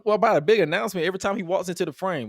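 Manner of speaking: high, loud retold bafflement; worked-up mock outrage at a running gag; exasperated disbelief. Co-host reliving the repeated announcement gag, exasperated.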